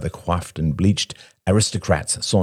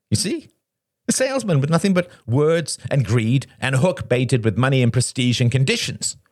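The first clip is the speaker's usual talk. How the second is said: higher-pitched wounded rant; Shane, agitated and bitter; 6 semitones higher than usual. Acted. Shane accuses a friend at the table, agitated. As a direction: pitch it up, spitting out grievances.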